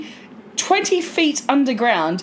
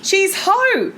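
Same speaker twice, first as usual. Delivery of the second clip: higher, louder mock mum; mocking mum's error; 9 semitones higher, 4 dB louder than usual. Daughter mimicking mum saying Ho, higher and louder. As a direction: Ho said as mum insists. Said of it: "Her name is Poe".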